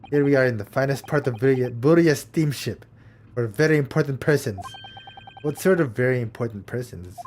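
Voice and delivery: put-on lightly Russian-accented gruff crewman; mild Russian accent, stiff and proud; Russian sailor.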